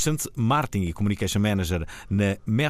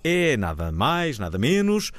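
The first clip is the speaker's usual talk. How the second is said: seductive voice. Acted. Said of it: "E esta voz, bastante sedutora".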